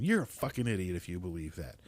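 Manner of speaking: ordinary talk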